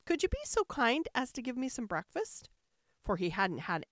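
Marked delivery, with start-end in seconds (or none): 0.1-2.5 put-on higher, politely asking boy. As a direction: ask sweetly like a hungry boy. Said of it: "quite polite-like".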